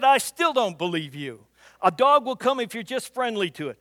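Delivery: mock-insistent refusal; emphatic doubt. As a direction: push back with loud disbelief. Retold debate, daughter doubting.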